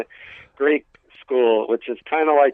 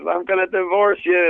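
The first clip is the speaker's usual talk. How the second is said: higher-pitched mock yell at his wife; retold angry yell; 6 semitones higher than usual. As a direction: imitate an outraged father, voice raised in pitch only. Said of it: "he started yelling at my mom".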